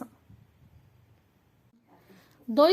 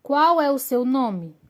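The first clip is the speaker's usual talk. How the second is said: example question; 3 semitones higher, 5 dB louder than usual. Shown as a demonstration. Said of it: "Exemplo abaixo nós temos".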